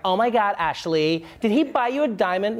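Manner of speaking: lightly voiced rich socialite; a hint of a gushing rich lady. Rich lady quizzing her friend Ashley about a diamond, lightly mock-gushing. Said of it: "some rich lady who's like".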